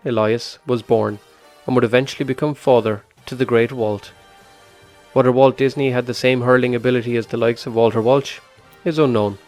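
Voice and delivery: scripted voiceover read over music; documentary narration. Acted. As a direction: read it like a radio feature intro.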